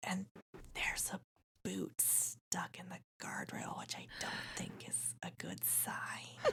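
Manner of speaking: barely voiced, very quiet, close whisper. Game narrator voices a woman leaning in close between Navarre and Rose, whispering. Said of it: "she kind of whispers".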